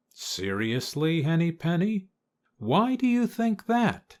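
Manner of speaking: disbelieving, rising question; doubtful surprise. A narrator's reading. Ducky Lucky doubts Henny Penny's warning: incredulous, rising. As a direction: pitch climbing high on the question.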